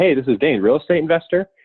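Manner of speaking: question-like rising pitch on "investor". Giving a self-introduction with name and job, rising pitch on investor. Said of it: "my tonality as an in, investor goes up, as if I had a question mark right after that".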